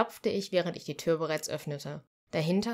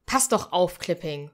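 sharp, louder curse; cursing; 6 dB louder than usual. Acted. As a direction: snap at him for dropping the sack. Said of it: "fluchte Freya".

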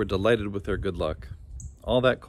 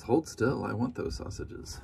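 dog speaking; 5 dB quieter than usual. Acted. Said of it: "And the dog says".

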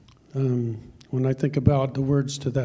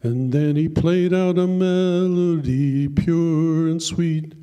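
poem recitation; slower than usual. Acted. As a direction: tell the poem like a heartfelt country ballad. Recites a poem over music.

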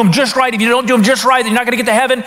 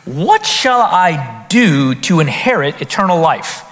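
lawyer's trap question; 5 semitones lower, slower than usual. Retold or imitated. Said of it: "a question he's gonna trap Jesus with".

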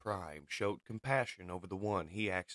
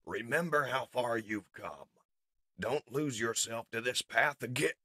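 slightly higher heroic appeal; earnest plea; 4 semitones higher than usual. Acted. Prime holds R C back from revenge, earnest. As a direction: urge a friend back from the brink.

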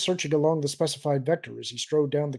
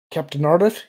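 louder call with a rising end; 3 semitones higher, 8 dB louder than usual. A narrator's reading. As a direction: summon an officer across the bridge. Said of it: "he called".

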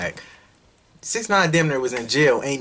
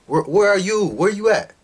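higher, louder taunt; taunting call-out; 8 semitones higher, 5 dB louder than usual. Real, not acted. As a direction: call out the haters, loud and high. Taunting the absent haters.

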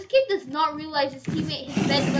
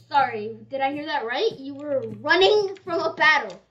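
mock accusation; 2 semitones higher, 6 dB louder than usual. Mock accusing teammate of running.

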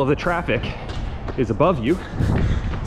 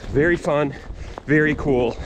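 sarcastic. Real, not acted. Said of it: "That's sarcastic".

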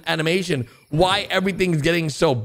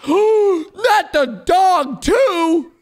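anguished wail; 11 semitones higher, 5 dB louder, much slower than usual. Real, not acted. Gasps as dog gets hit.

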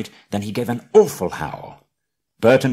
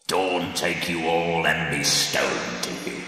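low, slow ominous voice; ominous curse; 3 semitones lower, slower than usual. Acted. Gandalf cursing the trolls, slow and low. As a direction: lay the curse slowly.

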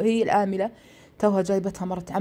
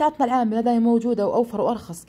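higher, louder retold insistence; urging; 5 semitones higher, 4 dB louder than usual. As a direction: imitate an aunt pressing her offer. Aunt urges him to hand over laundry. (إلحاح بصوت أعلى)

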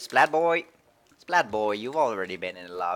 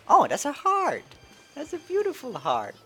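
high, loud delighted squeal; excited squeal; 4 dB louder than usual. Real, not acted. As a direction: gush over the drawing. Suddenly spots a heart drawing.

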